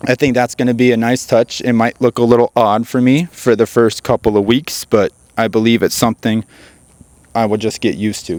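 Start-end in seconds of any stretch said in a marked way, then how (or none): 4.9-8.4 talking through hiccups; hiccupping between words. Real, not acted. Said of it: "Excuse me, I have the hiccups".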